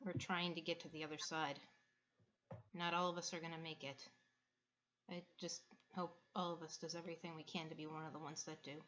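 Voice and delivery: sighing, then quietly resigned; soft, subdued voice after a breathy sigh; Quinn. Acted. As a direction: let it out on a sigh and speak softly. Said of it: "And Quinn sighs, and she's like".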